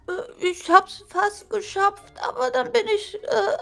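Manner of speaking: put-on whimpering old granny voice; old lady voice. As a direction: wail about the back like a grandma. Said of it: "du hörst dich an wie eine alte Oma".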